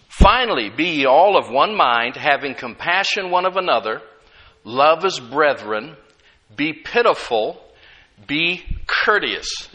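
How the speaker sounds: solemn Bible reading from the pulpit; scripture reading. Acted. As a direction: lay each phrase down deliberately. Reads scripture aloud.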